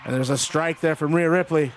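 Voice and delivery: lively ringside commentary, calling each move; play-by-play call. Acted. Calls wrestling match play-by-play.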